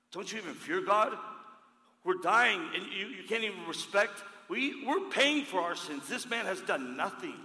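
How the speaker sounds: high, loud rebuke; rebuking thief. Acted. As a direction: scold the other thief with urgency. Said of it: "The other one said".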